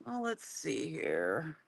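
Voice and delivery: thin headphone-mic sound; talking through headphone mic; headphones used as mic. Real, not acted. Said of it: "I'm talking through my headphones".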